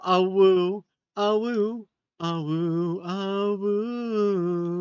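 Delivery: wolf howl greeting, drawn out. Pretend. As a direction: howl each awoo like a wolf.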